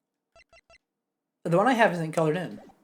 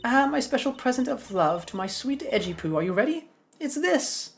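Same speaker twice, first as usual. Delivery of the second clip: put-on higher-pitched scolding old woman; cranky old lady; 6 semitones higher than usual. Old lady halting young prosecutors, cranky old woman. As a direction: bark it like a grumpy granny.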